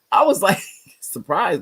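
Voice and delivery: laughing through the words; amused surprise. Real, not acted. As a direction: let a laugh break in mid-sentence. Laughs while recalling her surprise.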